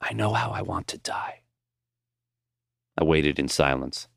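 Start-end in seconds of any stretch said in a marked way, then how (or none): 0.0-1.4 soft, hushed, much quieter; old man whispering his wish to his student. A narrator's reading. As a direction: breathe it like a confession. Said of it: "Finally, in a whisper".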